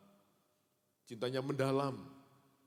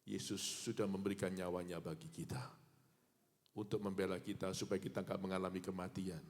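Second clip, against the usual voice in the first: ordinary delivery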